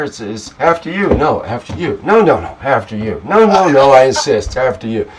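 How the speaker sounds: mock polite Canadian. Mocking a Canadian who won't go through the door first, hammed-up polite insisting. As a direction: play an over-polite Canadian at a doorway. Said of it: "are you trying to be Canadian here?".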